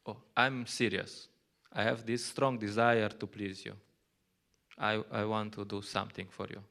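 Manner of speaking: mean every word, gently; earnest vow. Retold or imitated. Devotee pledging determination to Krishna, mild and sincere. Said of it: "you have to show some determination".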